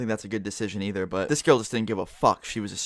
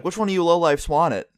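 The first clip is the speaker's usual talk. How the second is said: higher, louder demand, imitating an irate father; mock angry dad; 5 semitones higher, 4 dB louder than usual. Dad to the daughter's friends, holding the weed, mock angry demand. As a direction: challenge them like a fed-up dad, retold.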